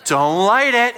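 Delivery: urgent plea. Retold or imitated. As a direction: beg them urgently not to light the fuse.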